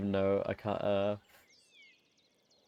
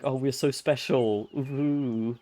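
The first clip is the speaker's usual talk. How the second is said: snobbish Bavarian mock; 4 semitones higher, slower than usual. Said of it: "Bavaria being like".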